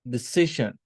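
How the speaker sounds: "ඩිසිෂන්" as de-CI-sion; teacher modelling "ඩිසිෂන්" with its middle syllable stressed; stress on second syllable. Shown as a demonstration. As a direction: lean on සි in "ඩිසිෂන්".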